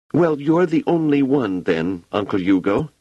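put-on high child voice, hurt and sulky; a small girl clinging to the one friend left; sad little girl. A narrator's reading. Wanda answers Uncle Hugo, sadly and high.

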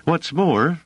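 irritated woman adding her objection; clear irritation. A narrator's reading. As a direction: cut in with irritation. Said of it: "said Dors with clear irritation".

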